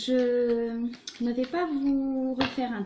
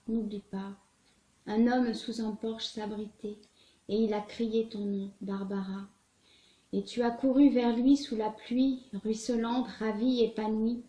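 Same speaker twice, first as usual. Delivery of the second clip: measured, earnest recital of a poem; sincere poem read aloud, with weighted pauses; poetry reading. A narrator's reading. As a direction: recite it in phrases, letting each image land. Reads a Prévert poem aloud.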